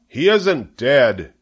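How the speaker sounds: high, slow, stretched-out holler. A narrator's reading. Zuckerman protests to the announcer, hollering. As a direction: protest it out across the ring. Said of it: "hollered Zuckerman".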